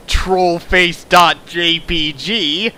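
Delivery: slow, loud, deliberate reading; mock smug. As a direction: spell it out like a punchline. Reading author note mockingly.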